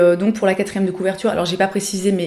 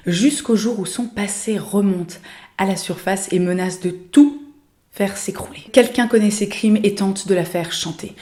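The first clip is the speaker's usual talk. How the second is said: dramatic back-cover read. Acted. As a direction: read it like a thriller teaser. Reads the back cover aloud.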